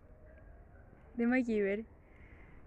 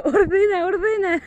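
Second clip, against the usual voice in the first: high, loud, whiny order; mother scolding her daughter to tidy the room; 8 semitones higher, 13 dB louder, slower than usual. Retold or imitated. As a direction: nag her sharply to tidy up. Mom scolding daughter while locked.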